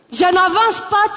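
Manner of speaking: defiant Ivorian. Retold or imitated. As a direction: throw back "Je n'avance pas" with "pas" punched up. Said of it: "elles ont du tempérament".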